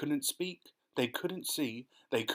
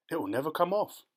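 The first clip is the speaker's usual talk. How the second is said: higher, louder gloomy cheer; brightly; 5 semitones higher, 4 dB louder, faster than usual. Acted. Earthworm tells the centipede, brightly. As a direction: announce doom with relish. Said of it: "the earthworm said brightly".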